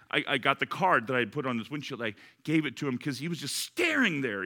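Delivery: ordinary talk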